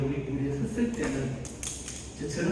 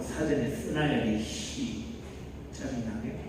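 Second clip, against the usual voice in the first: annoyed grumble; 6 semitones lower, 7 dB quieter, slower than usual. Acted. Voices irritated regional people grumbling.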